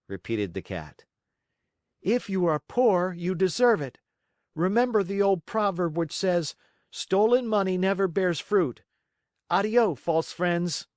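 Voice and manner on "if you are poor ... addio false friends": put-on high, loud moralizing boy; stern puppet. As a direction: scold them with a proverb. Pinocchio lectures them.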